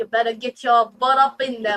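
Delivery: bad, fumbling, botched New York accent. Saying a word sounds like new york talk, bad new york accent. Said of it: "sound like something you'd hear from somebody from like New York".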